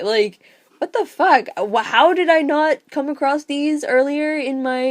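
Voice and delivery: high, loud, gushing disbelief; overwhelmed fan, swearing with joy; real excitement. Real, not acted. Reader gushing to Laura about the books, excited and loud.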